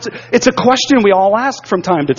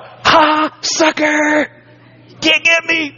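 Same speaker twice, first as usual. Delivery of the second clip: put-on higher, gloating kid's taunt; singsong schoolyard jeer, playful not angry; mocking taunt; 8 semitones higher, much slower than usual. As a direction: rub it in like a cocky teenager. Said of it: "And I was like".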